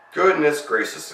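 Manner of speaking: high, loud, slow exclamation; astonished housekeeper, drawn out; exclaiming. A narrator's reading. Housekeeper startled by a bear at the door, exclaiming. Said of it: "exclaimed Missus Bird".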